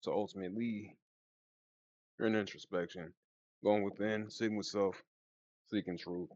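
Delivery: talking with a retainer in; slight lisp from a mouthpiece; wearing a retainer. Real, not acted. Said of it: "if I sound funny during this read, it's because I've been wearing this mouthpiece".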